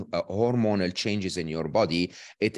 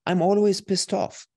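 high, louder mock French accent; imitated French accent; 10 semitones higher, 4 dB louder than usual. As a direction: imitate a friend's amused French-accented exclamation. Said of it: "he laughs out loud in his very lovely French accent".

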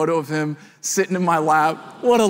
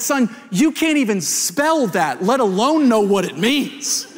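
put-on higher, incredulous comeback to a kid; mock-indignant dad; 3 semitones higher than usual. Dad to his boasting five-year-old son, mock-indignant. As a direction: put a cocky child in his place.

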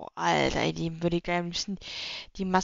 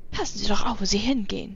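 put-on grumpy old man; 5 dB louder than usual. Grumpy character scolding.

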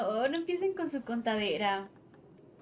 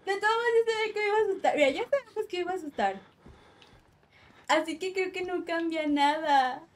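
flustered rush; 4 semitones higher, 4 dB louder, faster than usual. Real, not acted. Justifying scream to chat.

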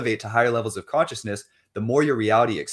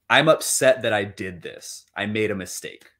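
calm admission. Shown as a demonstration.

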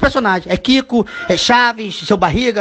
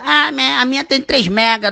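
mocking another parent; 4 semitones higher, slower than usual. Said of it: "a outra".

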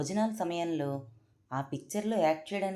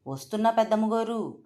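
loud, higher, jumping to answer; startled servant shouting back; startled call back; 6 semitones higher, 7 dB louder than usual. A narrator's reading. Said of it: "వంటవాడు అదిరిపడి".

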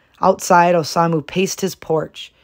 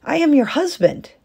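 louder, higher, stressing am; growing loud; 10 semitones higher, 4 dB louder than usual. A narrator's reading. Husband commanding his wife, growing loud. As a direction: assert your authority, rising. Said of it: "his voice growing loud".

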